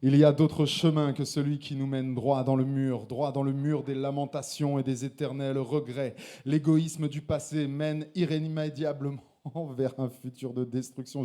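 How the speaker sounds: intense slam delivery; slam poetry. Acted. Slam poet declaiming his poem to the audience. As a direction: perform the poem with conviction.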